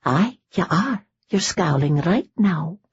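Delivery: a hint of a teasing Scottish accent; mock Scottish accent. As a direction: lightly mimic his Scottish burr. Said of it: "imitating his accent".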